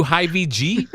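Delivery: laughing at own joke. Real, not acted. Joking insult to viewers.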